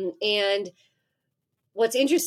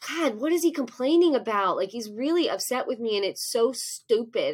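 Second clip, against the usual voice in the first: frustrated inner rant; 3 semitones higher than usual. Retold or imitated. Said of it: "I'm thinking, like".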